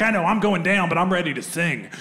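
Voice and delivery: lightly acted film-noir suspect; noir patter. Suspect matching the cop's talk, mock noir patter. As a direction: play along with hard-boiled patter. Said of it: "I had to match her patter".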